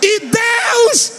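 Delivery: high, drawn-out shouted cry. Real, not acted. Preacher to congregation, crying out to God.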